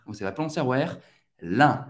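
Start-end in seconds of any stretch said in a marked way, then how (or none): 1.4-1.8 Lin said with a nasal un, no N. Shown as a demonstration. Teacher shows the nasal IN sound. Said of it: "I N em francês tem o som do un, bem nasal".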